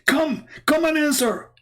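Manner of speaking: high, mocking taunt of a triumphant caller. A caller taunting Christian Prince, high mocking taunt. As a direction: sneer it like a gloating heckler. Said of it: "He said".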